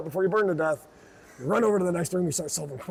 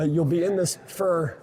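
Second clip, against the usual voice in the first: slow, lightly Irish "fur" for for; a touch of Irish accent on "fur"; Irish accent slip; 2 semitones higher, slower than usual. Shown as a demonstration. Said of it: "I've been Irish ish this whole time".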